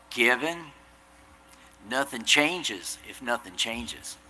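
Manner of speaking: slow Southern drawl, imitating dad; drawn-out Southern dad voice. Dad giving son advice in a slow Southern drawl. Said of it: "in his best Southern drawl".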